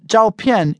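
"zhao pian" with both syllables falling; two fourth tones. Shown as a demonstration. Teacher going over the tones, "zhao pian" as two falling tones. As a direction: drop the pitch on each syllable of "zhao pian". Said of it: "is two fourth tones".

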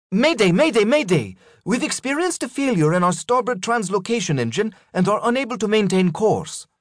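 a captain calling mayday, urgent but controlled; female captain voice. Acted. Captain Legrand calls a mayday.

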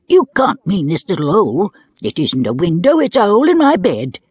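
a hint of an earnest little boy. Diamond voiced as child.

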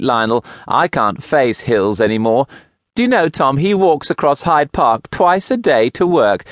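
high, breathless, gushing talk; chattering widow. A narrator's reading. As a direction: ramble on brightly without a pause.

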